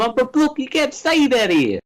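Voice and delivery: high, hammed-up Brooklyn voice; pseudo-Brooklyn accent. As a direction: protest in a mock Brooklyn accent. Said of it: "pseudo-Brooklyn".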